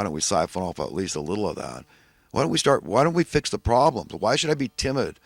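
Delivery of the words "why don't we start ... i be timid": indignant. Real, not acted. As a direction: push back, fired up. Rising indignant questions.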